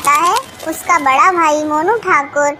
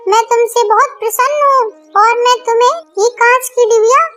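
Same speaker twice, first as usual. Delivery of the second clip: higher, otherworldly serpent woman, grateful; grateful nagin speaking to Tunni in a higher, otherworldly voice; magical snake voice; 6 semitones higher than usual. Acted. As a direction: play the nagin thanking her rescuer. Snake speaks after being rescued.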